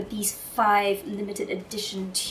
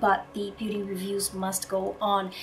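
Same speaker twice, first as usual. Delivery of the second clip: hoarse and nasal from a cold. Real, not acted. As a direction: talk through a stuffy, hoarse cold. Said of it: "excuse the slightly hoarse, nasally voice".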